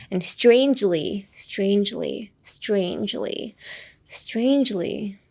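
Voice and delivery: "strangely" drawn out slowly with a long "ei"; careful model pronunciation. Shown as a demonstration. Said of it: "strangeが難しいね". (「strangely」をゆっくり丁寧に発音)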